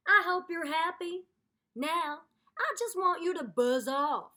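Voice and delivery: grumpy alligator scolding the reader; annoyed alligator. Acted. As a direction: tell the narrator off, fed up. Snapsy scolds narrator.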